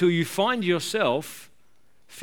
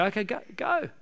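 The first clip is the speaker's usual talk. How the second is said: voicing God; 7 semitones higher, 3 dB quieter than usual. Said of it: "Occasionally God will say".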